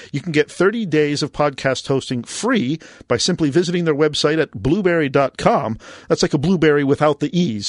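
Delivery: normal talking voice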